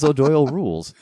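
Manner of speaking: jeering yell from a passing car; a teasing holler, not full force; mock yell. Driver jeering at the kid he just soaked, mock yell. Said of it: "And he yells".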